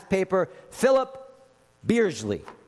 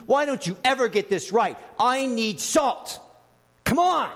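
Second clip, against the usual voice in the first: whiny, impatient complaint; petulant diner, rising pitch; entitled demand; 5 semitones higher than usual. Pretend. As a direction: demand the salt like a spoiled diner. Same servant, now demanding.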